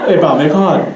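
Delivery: put-on local Pidgin accent, r dropped in "hard". Poker player nudging a friend, local Pidgin accent. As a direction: say it like a Hawaiian local egging on a buddy. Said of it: "try to talk like us".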